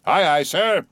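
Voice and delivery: cheery cry. A narrator's reading. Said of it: "cheerily cried little King Post".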